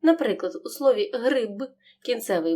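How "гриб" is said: final б in «гриб» kept voiced; clear voiced ending. Shown as a demonstration. Teacher shows pupils the word ending, clearly voiced. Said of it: "вимовляємо чітко, він не оглушується".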